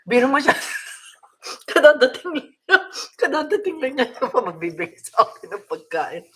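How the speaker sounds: delighted laughter while talking; laughing. Real, not acted. Husband brings her food, she laughs. (masayang tumatawa habang nagsasalita)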